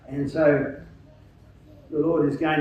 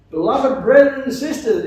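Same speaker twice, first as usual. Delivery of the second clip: put-on Canadian accent; 7 semitones higher, 8 dB louder than usual. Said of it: "Canadian accent".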